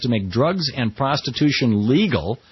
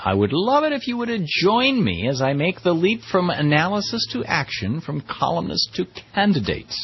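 a hint of a Greek accent, pitched up; attempted Greek accent; 6 semitones higher than usual. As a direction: lightly imitate her Greek accent from the mass email. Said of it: "I can't quite do her Greek accent".

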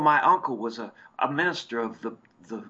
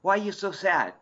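Mrs O'Brien voice; 6 semitones higher than usual. Retold or imitated. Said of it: "Missus O'Brien comes up and goes".

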